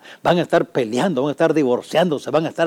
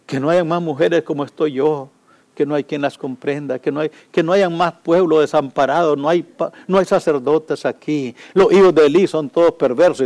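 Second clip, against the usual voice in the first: Ana praying; 2 semitones higher than usual. Pretend. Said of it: "Y dijo".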